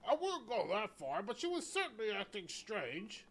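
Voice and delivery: slow, high, creaky elder's voice; an old church elder, slow and frail; old man voice. Acted. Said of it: "I gotta do an old man voice".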